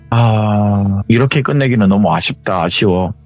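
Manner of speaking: mild, regretful lament to oneself; wistful complaining. Retold or imitated. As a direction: let a touch of disappointment sink in. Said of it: "좀 많이 하소연을 했다고".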